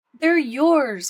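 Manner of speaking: a cheerful shout up to the squirrel; calling out. A narrator's reading. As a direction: call up to the squirrel from above. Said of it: "called the woodpecker".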